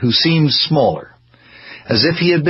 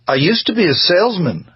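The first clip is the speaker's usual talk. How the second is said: higher-pitched, plaintive interjection; 8 semitones higher than usual. A narrator's reading. Husband defends his working past to the doctor, plaintively. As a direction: put in a mild, plaintive protest. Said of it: "Hartley interjected plaintively".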